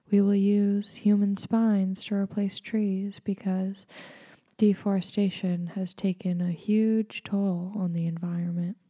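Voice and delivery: mock-soothing meditation host. Shown as a demonstration. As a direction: keep the serene guide's calm through bleak asides. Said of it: "I'm gonna use my meditation voice".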